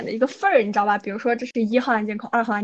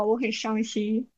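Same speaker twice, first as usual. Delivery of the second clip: mock sad; 6 dB quieter, slower than usual. Real, not acted.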